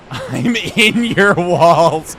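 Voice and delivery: creepy wall lurker. Pretend. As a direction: stretch it out like something hiding in the walls. Joking meme to chat.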